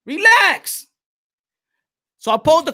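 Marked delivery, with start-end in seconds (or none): 0.0-0.9 high, drawn-out teasing relax; sing-song mock calming relax; mock soothing relax. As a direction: croon it up high to calm him down. Host mockingly soothes again.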